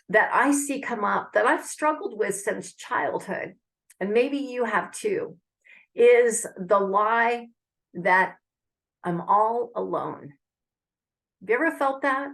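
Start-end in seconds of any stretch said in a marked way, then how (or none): 5.9-7.5 slow and louder on "is the lie", leaning on "lie"; stress on lie. Shown as a demonstration. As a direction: drag "is the lie" out and land hard on "lie". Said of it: "I'm gonna use to emphasize the word lie".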